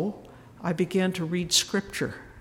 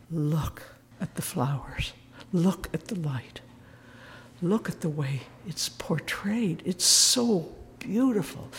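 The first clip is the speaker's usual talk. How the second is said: hushed wonder. Retold or imitated. Henry marvelling at the painting.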